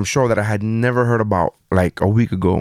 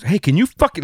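mild mock irritation, pitched higher; imitating mad wife; 4 semitones higher than usual. Wife storming over to the couch, mock mad. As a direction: retell an annoyed demand, raised in pitch. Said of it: "like, she's mad".

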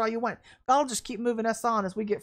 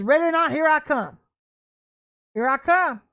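voice of God; 3 semitones higher, 4 dB louder than usual. Retold or imitated. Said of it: "God says".

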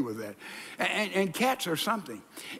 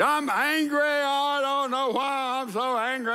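higher, whiny angry puzzlement; mock bewildered complaint; 7 semitones higher than usual. Preacher imitating a depressed churchgoer, higher and whining. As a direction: play someone lost in their own anger. Mimicking a confused angry person.

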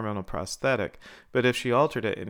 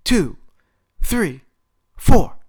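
high, very loud referee's count; full-force shouted match start; 12 semitones higher, 13 dB louder, slower than usual. A narrator's reading. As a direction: shout each count separately, building to a drawn-out bellow. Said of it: "He then shouted".

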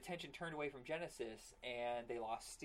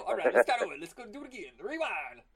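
excited; 6 semitones higher, 17 dB louder, faster than usual. Pretend. Joking about restarting show.

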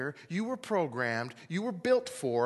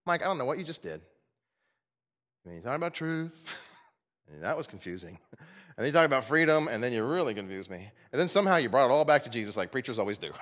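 voicing the listener; 3 semitones lower than usual. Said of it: "you might be sitting there thinking".

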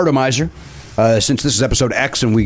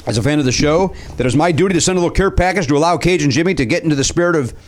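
put-on Cajun accent. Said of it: "you're still doing the accent".

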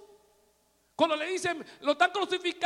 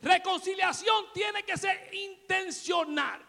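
higher, slow, proclaimed; emphatic repeat; 5 semitones higher, slower than usual. Shown as a demonstration. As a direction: drive the point home, slowly. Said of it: "Lo digo de nuevo".

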